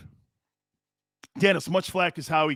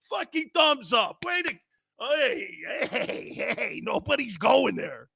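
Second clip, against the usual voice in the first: mock fans; 4 semitones higher, 3 dB quieter than usual. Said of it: "Philly Eagle fans are going".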